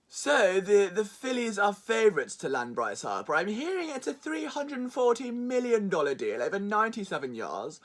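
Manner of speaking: lightly voiced rumour reporter, trailing low; mock news report. Vlogger mimicking Harper reports, mock reporter tone. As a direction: parody a breathless insider report. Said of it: "every Bryce Harper report looks exactly like this".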